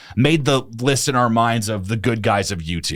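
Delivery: ordinary delivery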